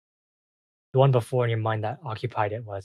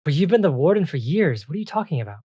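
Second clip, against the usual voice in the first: higher fairy voice, baffled and protesting; disbelieving ice fairy; 5 semitones higher, 4 dB louder than usual. Acted. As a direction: protest in bewilderment, pitched up.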